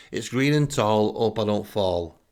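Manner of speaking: slow, sing-song little rhyme; rhyming back. Retold or imitated. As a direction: answer the rhyme playfully. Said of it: "try to rhyme back".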